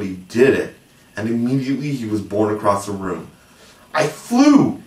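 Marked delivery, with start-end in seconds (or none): 3.9-4.8 high, loud thrilled shriek; excited scream. A narrator's reading. Little boy flying for the first time, thrilled scream. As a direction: scream it out in pure joy. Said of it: "he screamed while still in midair".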